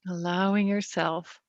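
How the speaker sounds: slow, spaced-out meditation lead; guided meditation. Acted. Leader invites the group to let go, guided meditation. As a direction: draw the phrase out, giving listeners room to release.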